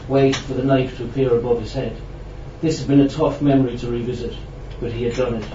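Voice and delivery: measured literary reading; story narration. A narrator's reading. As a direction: read the prose out to an audience. Reads a prose story aloud.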